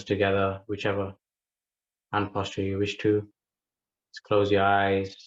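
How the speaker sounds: unhurried meditation guidance with long pauses; guided meditation. Acted. Teacher settling a group into breath awareness, guided meditation. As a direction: guide listeners into breath awareness, leaving space between phrases.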